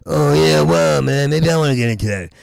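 rushed, throwaway repeat of the fake interest. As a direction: toss it off quickly. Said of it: "And I went".

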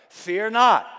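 ringing shout of Fear not; preacher's full-force cry; loud proclamation. Acted. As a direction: hurl it at the congregation. Preaching climax.

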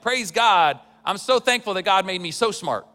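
mock humble brag. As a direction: put on a smug churchy thankfulness. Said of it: "the humble brag".

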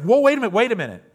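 high, loud "whoa" that eases off; startled interruption. Retold or imitated. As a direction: stop someone who is walking away. Man stops him walking away.

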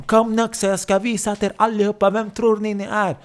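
high-pitched raging taunt; acted furious challenge. Abbasen challenges the men in the room, enraged. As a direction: dare the whole group to come at you.

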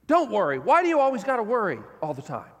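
a hint of a scolding, exasperated parent; impatient, shaming "Don't worry.". Shown as a demonstration. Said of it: "these words as shaming words".

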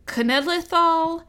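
"Cenedlaethol" slowly, starting with a hard K sound; "Cenedlaethol" slow, a K sound at the start, ken-ed-LIE-thol; Welsh pronunciation. Shown as a demonstration. Correcting her co-host, slowly sounding out the Welsh word. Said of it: "Caesar K's".

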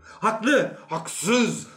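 high, loud competing shouts; crowd calling out. Acted. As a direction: call out verdicts from the crowd. Crowd voices shouting verdicts.

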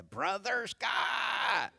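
drawn-out, high country holler; imitated yell, long but held back in volume. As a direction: stretch it like a mock country call. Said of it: "They're so country yelling out".

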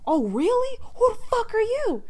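loud, high-pitched incredulous challenge; retold heated retort. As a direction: mimic an escalating shouting match. Retold confrontation between two men.

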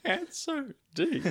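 high, slow hammed-up voice; drawn-out mock deep voice. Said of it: "there's a deep voice".

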